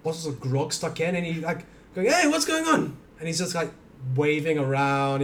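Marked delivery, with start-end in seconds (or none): 2.1-3.0 put-on high, slurry drunken orc greeting. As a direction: play a tipsy orc calling out. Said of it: "Gerbu the Drunkard".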